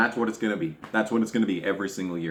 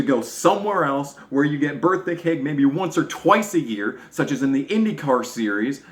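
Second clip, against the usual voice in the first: angry rant; 5 semitones higher than usual. Real, not acted. Ranting at Dave and NASCAR.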